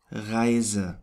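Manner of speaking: Reise ending in a schwa. Shown as a demonstration. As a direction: say Reise with a neutral final E. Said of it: "the third pronunciation is a schwa".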